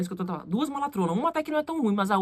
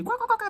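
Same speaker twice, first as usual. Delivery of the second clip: mock "quá quá" belly laugh, pitched up; imitated guffaw; 12 semitones higher than usual. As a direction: imitate the boss's far-carrying laugh. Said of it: "dando risada". (gargalhada imitada)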